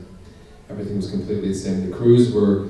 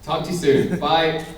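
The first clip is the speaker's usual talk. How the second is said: higher, cheery phone goodbye; mock phone sign-off; 5 semitones higher than usual. Actor ending a phone call before an audience, playfully polite. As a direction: wrap up a call with exaggerated politeness.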